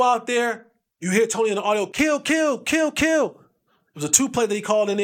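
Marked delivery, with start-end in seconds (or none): 1.9-3.3 quarterback audible call. Retold or imitated. Quarterback calling audible at line.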